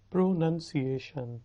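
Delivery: "پروننسیشن" carefully, with short "nun" in the middle; correct pronunciation. Shown as a demonstration. Teacher repeating it for learners, "پروننسیشن" with "nun", not "noun". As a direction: model "پروننسیشن" as pro-nun-see-ay-shun. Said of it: "اس کا صحیح تلفظ ہے".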